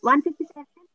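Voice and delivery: broken, stretched call audio; radio breaking up. Real, not acted. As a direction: signal dropping mid-word. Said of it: "one fifty five এর পর আমরা কিছু শুনিনি".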